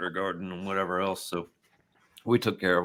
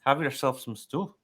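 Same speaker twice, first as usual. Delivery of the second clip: light Scottish brogue, pitched higher; a hint of a Scottish old woman accent; 5 semitones higher, 4 dB louder than usual. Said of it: "I'm not as good at the Scottish brogue".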